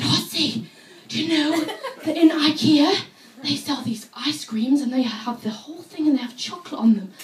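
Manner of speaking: eager, laughing; excited news. Retold or imitated. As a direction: tell a coworker a marvel. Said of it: "I said".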